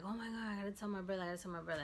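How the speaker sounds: fast, high burst of retold panic; quick frightened gasp of news; panicked rush. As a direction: blurt it out in a rush, alarmed. Panicked at news of grandmother's death.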